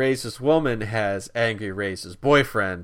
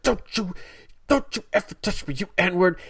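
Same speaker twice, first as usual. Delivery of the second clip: high, louder mock rage; angry shout; 9 semitones higher, 4 dB louder than usual. Racist woman yells at drunk man, high and angry. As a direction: yell at him like an outraged stranger. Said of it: "angry racist woman is like".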